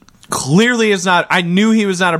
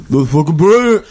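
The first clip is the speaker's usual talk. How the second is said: louder fake British exclamation; mock Stallone in British; 4 dB louder than usual. Imitating Stallone loving the accent, mock British. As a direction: gush like a delighted Brit. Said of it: "heard this man's accent and was like".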